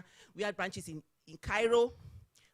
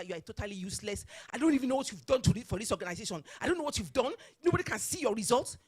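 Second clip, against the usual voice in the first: building mock rant from ordinary voice to raised; imitating a boss's rapid scolding; retold shouting; faster than usual. Chairman tearing into her work, shouting. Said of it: "the man shouting at her".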